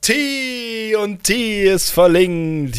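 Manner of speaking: rising high and loud with excitement; excited. Real, not acted. Discovers winning link, rising excitement. (aufgeregt, immer höher und lauter)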